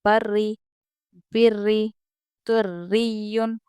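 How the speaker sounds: बर्री, बिर्री, तुर्रियुन with a thin, doubled ra; thin ra recitation. Shown as a demonstration. Teacher reciting examples with a thin ra. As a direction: recite each with a light ra. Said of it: "इसको हम बारीक पढ़ेंगे सब जगह".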